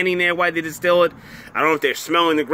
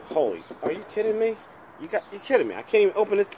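exasperated disbelief; 6 semitones higher, 5 dB quieter, faster than usual. Real, not acted. Struggling to open the bottle.

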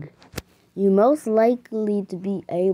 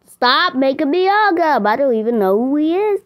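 whiny protest; 5 semitones higher, 4 dB louder than usual. Pretend. Made to hug a stranger.

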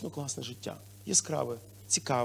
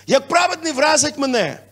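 louder, higher psalm reading; scripture reading; 6 semitones higher, 7 dB louder than usual. Real, not acted. Pastor reading Psalm aloud to the church, louder. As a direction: read the verse with weight. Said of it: "Псалми сто сорок п'ять".

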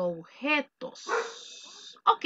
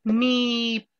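slow prompt; much slower than usual. Shown as a demonstration. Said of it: "teacher gives prompt".

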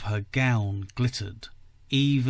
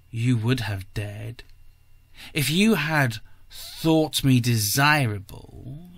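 hoarse. Acted. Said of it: "she answered hoarsely".

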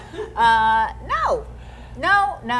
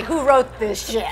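laughing through it. Pretend. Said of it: "do it with different inflections each time".

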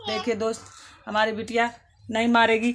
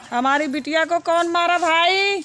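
angry calling out; 5 semitones higher, 4 dB louder than usual. Real, not acted. Mother angrily calls out whoever hit her daughter. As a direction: call out angrily, louder and higher, slowing on the last words.

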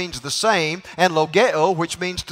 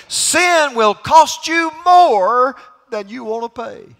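building sermon refrain; 4 semitones higher than usual. Real, not acted. Preacher builds a repeated refrain.

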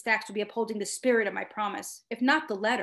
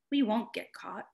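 honeyed voice. A narrator's reading. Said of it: "His voice was honeyed, convincing".

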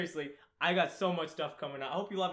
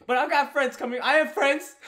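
mock defensive; 10 semitones higher, 10 dB louder than usual. Defensive insistence after "home alone.

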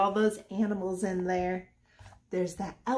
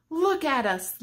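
lifted refrain; 6 semitones higher, 5 dB louder than usual. Acted. Repeated refrain, first take higher.

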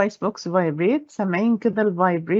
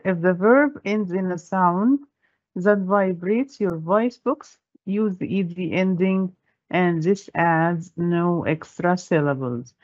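slow rule; much slower than usual. Shown as a demonstration. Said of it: "So the rule here".

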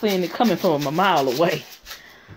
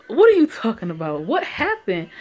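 loud, raised-pitch questions; shocked demand; 4 semitones higher, 5 dB louder than usual. Acted. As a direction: demand answers in alarm. Reads Liam's shocked demand.

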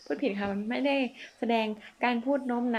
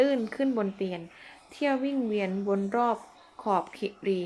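slow verse recitation. Shown as a demonstration. Reciting Thai verse slowly.

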